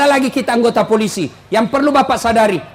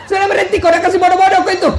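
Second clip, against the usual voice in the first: high, rapid telling-off; mock scolding; 6 semitones higher, much faster than usual. Preacher to husband fooled by cravings, mock scolding. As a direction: tick off a gullible husband, fast.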